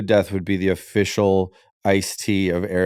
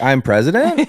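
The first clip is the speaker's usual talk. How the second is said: unsure question; 3 semitones higher, 3 dB louder than usual. Pretend. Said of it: "I'd be like".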